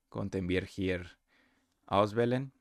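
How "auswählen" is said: usual speaking voice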